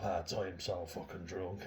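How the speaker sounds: insistent, slow, repeated bid for attention. Retold or imitated. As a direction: say it again, pushing harder for notice. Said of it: "and she says, like".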